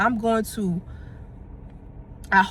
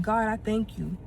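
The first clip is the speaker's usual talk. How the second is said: retold prayer of thanks. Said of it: "at my desk crying".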